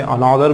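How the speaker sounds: "another" with an aa vowel, misread "anaadar"; wrong pronunciation. Shown as a demonstration. Teacher rejecting a second misreading, "another" mispronounced. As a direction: say "another" wrongly as a-NAA-dar. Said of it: "भी नहीं बोलते".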